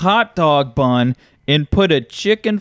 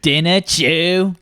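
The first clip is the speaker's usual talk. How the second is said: British meal-by-meal recital; mock British accent; slower than usual. Brit listing the day's chews, mock British accent. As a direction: play a cartoon Brit. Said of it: "I like the British act".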